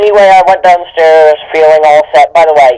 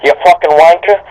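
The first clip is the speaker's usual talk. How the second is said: mock lovesick confession; 3 semitones higher than usual. Dramatic reading of fanfic dialogue.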